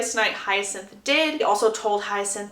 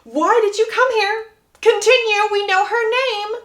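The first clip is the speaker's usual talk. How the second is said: drawn-out exasperation, climbing higher and louder; frustrated grandmother; 9 semitones higher, 3 dB louder, slower than usual. Acted. Grandmother interjects at her tongue-tied grandson, frustrated. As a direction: spell it out impatiently, building in pitch. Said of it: "very, very frustrated, and just goes".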